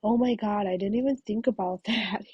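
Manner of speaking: retold, laughing through the words. Husband realizing his noise ruined her recording, laughing. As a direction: let a laugh break into it. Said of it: "starts laughing".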